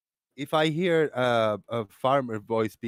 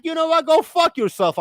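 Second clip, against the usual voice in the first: retold angry retort; 8 dB louder than usual. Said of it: "I go like".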